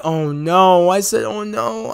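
softly retold dread; hushed dismay. Viewer recalling his reaction as May bleeds, hushed dismay. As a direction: let a quiet "oh no" sink.

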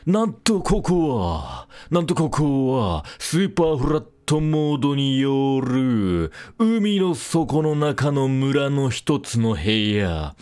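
slow, deliberate storyteller recap; recap narration. Acted. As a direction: narrate last time like a drama trailer. Recap of previous episode. (ゆっくりした前回のあらすじ語り)

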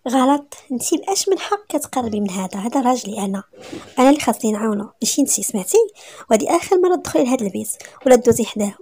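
heated, emphatic telling-off; acted jealous wife laying down the law; jealous scolding. Jealous wife orders Hana away from her husband, angry scolding.

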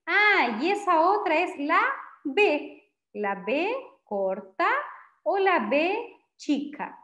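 "la B corta" despacio y marcado; cita explicativa. Shown as a demonstration. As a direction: nombrar la letra con énfasis. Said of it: "Nosotros decimos". (cita lenta: "B corta", "B chica")

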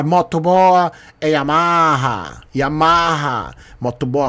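mocking talk through a mouthful; mouth full. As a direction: say it slowly round a popsicle. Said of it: "fala aí de boca cheia".

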